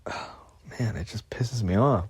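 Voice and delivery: hissed under his breath, barely voiced; angry whisper. Real, not acted. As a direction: whisper the anger instead of shouting it. Venting anger under his breath.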